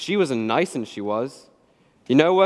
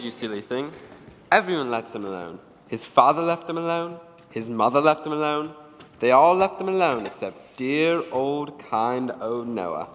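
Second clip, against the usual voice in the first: mocking taunt; 2 semitones lower than usual. Noah mocking Oliver.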